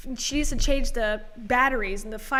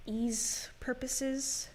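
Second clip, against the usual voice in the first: whispered; 8 dB quieter, much slower than usual. Real, not acted. Mumbled aside about name change.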